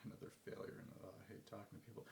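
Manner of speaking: soft, trailing-off defeated mumble; mock self-defeat, said quietly under the breath; dejected inner voice. Dreading the next cold call, dejected and quiet. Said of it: "feel like".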